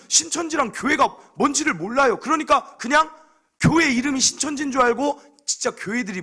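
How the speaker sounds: loud, high-pitched indignant sermon; fiery preaching. Acted. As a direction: preach at full force, outraged. (분노에 찬 힘있는 설교)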